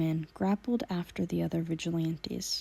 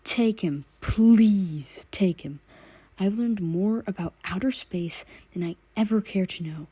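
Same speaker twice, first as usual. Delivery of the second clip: louder, desperate pleading thug; begging; 6 dB louder than usual. Acted. A worn-out thug begging the vigilantes to take the giggling meta. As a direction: beg them to take him away. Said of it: "begged the vigilantes".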